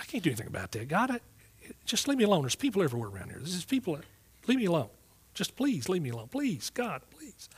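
re-enacted desperate plea, fading on the final please; retold begging. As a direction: pitch climbing into soft, pleading cries. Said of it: "so I'm just begging him".

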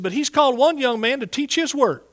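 high, loud proclamation; re-enacted preacher's announcement from the platform; imitated lady minister. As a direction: ring it out to the whole congregation, pitched well up. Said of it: "this lady that was ministering".

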